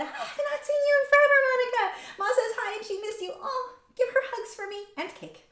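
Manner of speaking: high, fast and bright with excitement; excited. Real, not acted. Excitedly reading a fan's chat.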